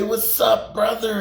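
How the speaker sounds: retold greeting, pitched well up; called-out greeting. Country greets him back at night, imitated high hail.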